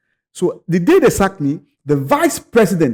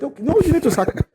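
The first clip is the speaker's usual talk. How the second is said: put-on Italian accent; 11 semitones higher, faster than usual. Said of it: "in the Italian accent".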